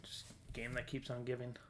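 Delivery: soft, breathy whisper to himself; hushed, almost inaudible remark; whispered aside. Real, not acted. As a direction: whisper it like a private thought. Aside about game that keeps giving.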